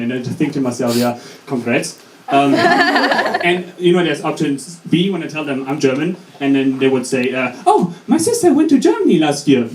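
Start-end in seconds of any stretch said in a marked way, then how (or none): 1.0-2.0 slow, low, unimpressed; dry sarcasm. Acted. German student thinking to oneself after small talk, dryly sarcastic. 7.7-9.7 high-pitched, overeager small talk; mock gushing. Acquaintance hearing the speaker is German, gushing and high-pitched.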